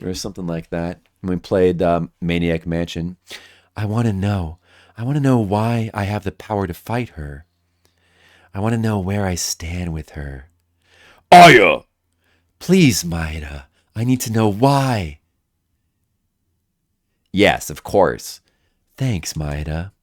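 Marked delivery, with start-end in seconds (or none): 3.8-15.2 sultry female voice. Acted. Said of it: "Everyone likes my sultry female voice". 17.3-18.4 slow, measured nerdy scientist; slow nerd voice. Acted. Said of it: "my nerd voice". 19.0-19.9 sultry female voice. Acted. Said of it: "my sultry female voice".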